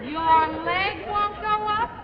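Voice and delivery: slow, high, climbing question; incredulous echo. Acted. Wife repeats husband's complaint, incredulous. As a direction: stretch it upward in disbelief.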